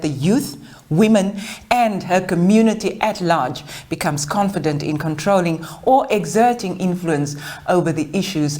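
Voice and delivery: measured, carefully phrased read-aloud biography; formal introduction. Acted. Host introducing a guest to an audience, formal read.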